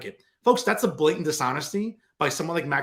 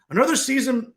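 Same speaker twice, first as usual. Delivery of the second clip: higher mocking imitation of an activist host; Patty Campos Medina imitation; 8 semitones higher, 3 dB louder than usual. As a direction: mimic her pompous on-air delivery. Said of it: "I'm doing my best Patty Campos Medina imitation".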